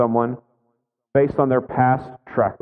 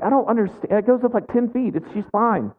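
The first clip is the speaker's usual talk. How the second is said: higher, mock-casual brushing off a worry; breezy reassurance; 7 semitones higher than usual. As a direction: wave away the fuss like it's nothing. And I'm like.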